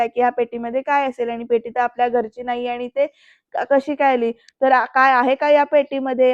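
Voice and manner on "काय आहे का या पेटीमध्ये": repeated question pushed harder; forceful demand. Acted. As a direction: demand an answer firmly. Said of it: "परत जोराने विचारतो". (जोराने विचारलेला प्रश्न)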